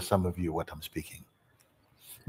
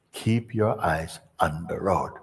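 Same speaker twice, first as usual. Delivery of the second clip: slow, low steady instruction; calm instructor; 3 semitones lower than usual. Retold or imitated. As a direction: settle him down slowly.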